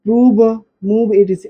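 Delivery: प्रूव called out loudly and crisply for the class to copy; loud dictation. Shown as a demonstration. Teacher dictating words for students to write, loud. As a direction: call out प्रूव and मूव to write down. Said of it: "देखिए पहले देख लो".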